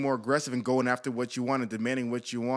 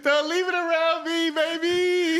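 laughing; 13 semitones higher, 4 dB louder than usual. Real, not acted. Joking about checking phones.

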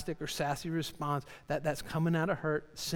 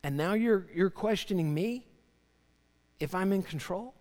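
raised, emphatic rebuke of Job; lightly acted challenge, higher and louder; God; 4 semitones higher, 4 dB louder than usual. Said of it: "God's saying to, to Job".

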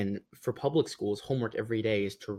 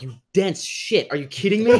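laughing mock outrage; 8 semitones higher, 7 dB louder than usual. Retold inner reaction, laughing.

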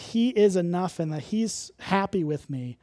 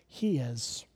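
hushed, slow whisper on the point; whispered emphasis; 6 semitones lower, 8 dB quieter than usual. Real, not acted. Preacher whispers the key truth to congregation, hushed. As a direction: drop to a whisper to let it land. Preacher stresses Jesus's righteousness.

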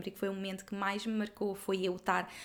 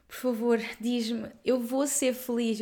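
mock tearful plea, a bit louder; retold tearful plea; 2 semitones higher, 4 dB louder, slower than usual. Inês retelling how she begged Helga through tears, mildly pleading. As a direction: plead as if through past tears, not real crying. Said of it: "eu tava a chorar e a dizer".

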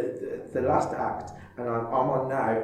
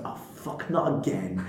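weary wife; 4 semitones lower, 6 dB quieter than usual. Retold or imitated. Wife's weary look at husband.

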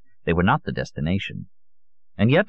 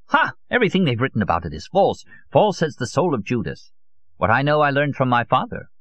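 put-on higher, emphatic old man's voice; scornful old conspiracist; 8 semitones higher than usual. Old Solon dismisses what is written on the subject, scornful zealot. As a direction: dismiss all the books with scorn.

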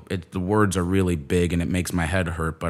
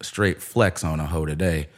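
cocky; 4 semitones lower, 4 dB quieter than usual. Retold or imitated. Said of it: "I'm like".

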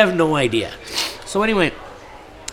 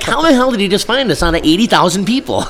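disbelief; 9 semitones higher, 4 dB louder, faster than usual. Retold or imitated. Retold disbelief at kid.

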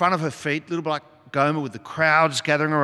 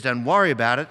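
lenient Jesus; 4 dB louder, faster than usual. Pretend. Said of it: "But if he says".

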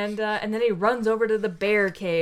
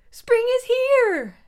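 high, slow, loud cry; groundhog shouting; 7 dB louder, slower than usual. Retold or imitated. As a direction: announce it like an overexcited groundhog. Groundhog announces to pig.

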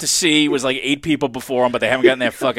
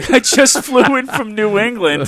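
put-on old borscht belt comic; 7 semitones higher than usual. Repeats the hack comic opener.

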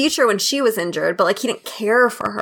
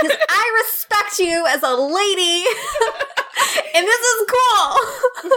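laughing impression of a rapper; 9 semitones higher than usual.

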